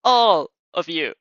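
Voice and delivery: mock-menacing, half-joking threat; childish threat. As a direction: drag it out like a sulky kid making a threat. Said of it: "you threaten, hopefully childishly".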